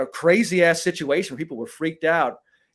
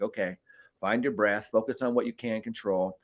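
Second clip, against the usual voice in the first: softly talking himself down; quiet inner coaching voice; calm self-talk; 4 semitones lower, 6 dB quieter than usual. Retold or imitated. Talking himself down before the fight, softly.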